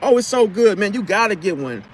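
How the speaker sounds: high-pitched, gushing mock enthusiasm; annoying chatter. Talking a customer's ear off on purpose, annoyingly chatty and high. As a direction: pester them with high, eager small talk. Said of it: "I would just keep talking".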